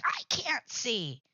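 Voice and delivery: slow, mildly mock-exasperated outburst; retold anger. Daughter imitating mom who got mad at her, mock exasperated. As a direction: stretch it out like an annoyed mom. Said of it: "She got mad at me".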